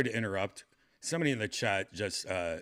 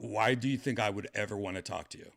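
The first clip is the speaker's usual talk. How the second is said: angry dismissal; 3 semitones higher than usual. Real, not acted. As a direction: tell the bot off harshly. Yelling at the chatbot.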